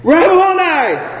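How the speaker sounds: high, drawn-out cry of recognition. Acted. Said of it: "cried out in Aramaic".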